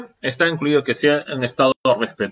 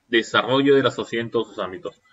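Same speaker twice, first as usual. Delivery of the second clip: quick echo; 3 semitones lower, faster than usual. Shown as a demonstration. Teacher to students, quickly echoing the phrase. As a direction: rattle it off again as an echo. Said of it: "El desarrollo de la sociedad en todos sus ámbitos".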